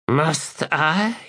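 high, thin, reluctant rasp; thin rasping reply. Acted. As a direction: answer grudgingly from the dark. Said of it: "a thin, rasping reply".

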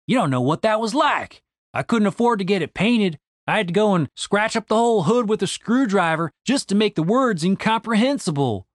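lightly voiced sore complaint; aggrieved Randy. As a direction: air an old grievance to a friend. Narrator voices Randy's grievance.

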